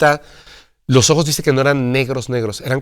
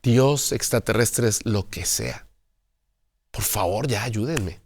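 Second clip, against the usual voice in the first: softer, lower desperate prayer to the sky; quiet inner plea; 3 semitones lower, 6 dB quieter, slower than usual. Retold or imitated. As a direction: plead softly as if praying in your head. Piensa dentro de sí. (súplica en voz baja, como rezando para sí)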